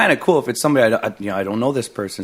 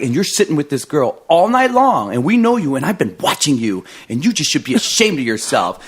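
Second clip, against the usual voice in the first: louder, scolding lecture; scolding lady; 3 semitones higher, 4 dB louder than usual. Retold or imitated. Lady scolds singer for sitting with girl, mock scolding. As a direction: shame him sharply. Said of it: "she's like".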